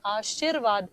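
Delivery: आशीर्वाद with the र clearly after शी; careful pronunciation. Shown as a demonstration. Teacher shows the र after शी in आशीर्वाद, careful pronunciation. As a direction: spell out आशीर्वाद, ऋ sound after शी. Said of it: "शी के बाद में र की ध्वनि आ रही है".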